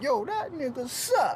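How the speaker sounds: high, drawn-out battle-rap insult; mock trash talk. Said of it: "talking about".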